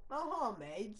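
British accent. Shown as a demonstration. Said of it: "So I say Arab name in a British accent".

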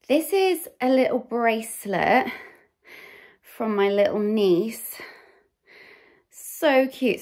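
talking while slightly winded; a bit breathless, catching air; out of breath. Real, not acted. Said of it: "Sorry, I'm so out of breath".

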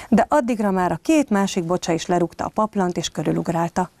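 put-on lively read-aloud storytelling for children; story narration. A narrator's reading. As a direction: tell it like a bedtime tale to little kids. Reads a bedtime story to children.

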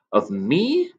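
in a rapture. Acted. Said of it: "cried Alan in a rapture".

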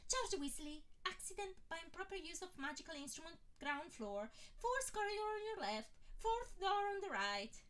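high, rote receptionist reading, slowing at the end; mechanical reading. A narrator's reading. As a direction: read it off the paper by rote. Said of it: "read mechanically".

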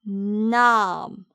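nam with the a held long; lengthened nam. Shown as a demonstration. Teacher shows students the long stressed a. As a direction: stretch the a in nam. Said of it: "길게 발음하세요".

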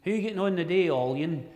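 put-on broad Scottish accent. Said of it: "you'll hear folk in the queue".

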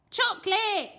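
high, loud cry of chocolate; a boy lighting up at a treat; eager kid shout. A narrator's reading.

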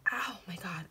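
shaky whispered voice while shaking. Real, not acted. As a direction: let the voice shake as you whisper. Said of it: "sorry about the shaking".

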